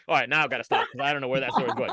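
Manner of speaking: quick, breaking into laughter; laughing. Real, not acted. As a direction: laugh as you give up the story.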